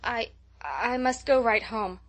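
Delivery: slow, stumbling and slurred; thick and halting. Acted. Dazed girl insisting to her friend she must leave, slow and thick. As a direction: drag each word as if dazed. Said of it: "a little thickly".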